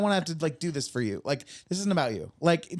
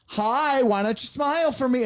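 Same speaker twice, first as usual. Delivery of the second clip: high, sugary come-on to a stranger; mock creepy stranger; 8 semitones higher than usual. Stranger pestering someone on the street, high fake-sweet. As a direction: lay on fake sweetness, pitched up. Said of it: "you were like".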